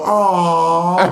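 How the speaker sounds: drawn-out mock-touched crowd aww; sitcom audience aww. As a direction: coo like a studio audience. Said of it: "they go".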